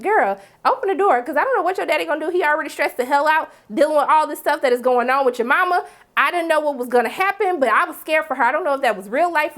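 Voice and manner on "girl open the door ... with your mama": higher, pleading with a frightened friend; a worried friend calling through the door; urgent plea. Retold or imitated. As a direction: beg her to open up, worried. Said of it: "I was like".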